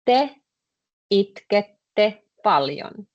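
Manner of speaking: slow, "itkette" stretched out; slow demo. Shown as a demonstration. Teacher modelling the sentence slowly for students. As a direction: say "Te itkette paljon" slowly, spelling out every syllable. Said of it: "then you just tell me the sentence".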